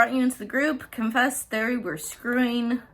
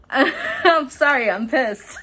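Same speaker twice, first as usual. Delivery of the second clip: laughing; 8 semitones higher, 7 dB louder, slower than usual. Real, not acted. Laughs at her own anger.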